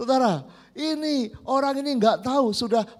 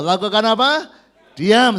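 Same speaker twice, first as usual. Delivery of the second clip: louder call; 6 dB louder than usual. Shown as a demonstration. Preacher urging congregation to answer, louder. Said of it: "Kurang keras, ayo".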